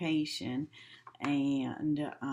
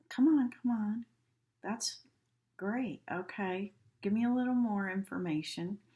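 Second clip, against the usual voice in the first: higher, urging, fast at the end; eager; 5 semitones higher than usual. Shown as a demonstration. Teacher showing an encouraging gesture, higher and eager. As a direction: coax them to keep going.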